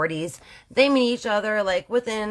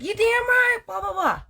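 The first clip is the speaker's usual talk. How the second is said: sassy high wife; 14 semitones higher than usual. Retold or imitated. Wife voiced in story.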